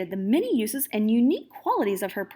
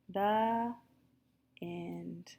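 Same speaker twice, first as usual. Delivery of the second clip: hushed final word; whispered ending; 3 semitones lower, 7 dB quieter than usual. Real, not acted. Reader whispering the end of the story.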